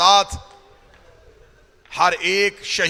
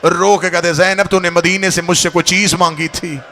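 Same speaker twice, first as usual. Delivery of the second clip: rising wailing preacher's chant; majlis recitation; 4 dB louder than usual. Acted. Preacher reciting Karbala to mourners, wailing chant. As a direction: mourn Hussain's story to the gathering.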